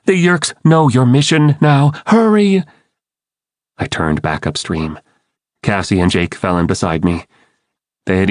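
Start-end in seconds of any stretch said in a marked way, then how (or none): 0.1-2.6 high, urgent, pressing; urgent plea. A narrator's reading. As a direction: push them to hurry, voice rising. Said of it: "Hurry, hurry!".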